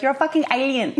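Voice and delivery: high, loud mock-Czech exclamation; Czech accent. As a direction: mimic a Czech friend's amused outburst. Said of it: "she says it in a Czech accent".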